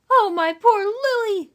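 high, slow rustic woman wailing; flustered country woman. Acted. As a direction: lament like a panicky farmwife. Eliza voiced.

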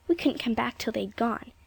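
hushed, breathless whisper. A narrator's reading. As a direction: whisper it like a secret. Child whispering the excuse.

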